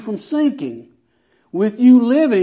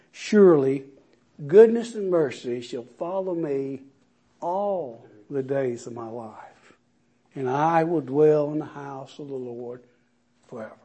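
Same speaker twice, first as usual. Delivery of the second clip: reverent psalm; 4 semitones lower, 4 dB quieter than usual. Acted. Softer reverent psalm reading.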